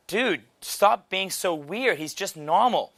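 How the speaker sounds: a hint of girls scolding their friend; exasperated girls. Girls telling the Texan to stop being weird, lightly mimicked exasperation. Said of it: "The girls are like".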